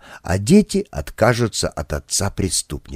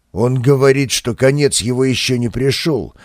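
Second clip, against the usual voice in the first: raging. Acted. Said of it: "бушевал латыш".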